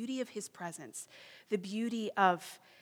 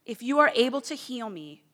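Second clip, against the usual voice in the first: pleading; 5 semitones higher, 12 dB louder than usual. Retold or imitated. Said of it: "So she says".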